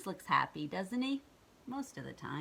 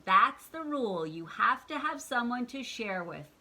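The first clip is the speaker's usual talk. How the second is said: stern tree; 5 semitones higher, 6 dB louder than usual. Acted. Tree sets rule.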